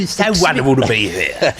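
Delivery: light showbiz host voice; cheery TV presenter voice; Bruce Forsyth impression. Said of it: "Oh, do it now".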